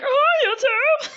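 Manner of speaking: hammed-up high society voice; fancy girl. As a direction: sing it out as the fancy lady, then trill a laugh. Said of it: "I'm like".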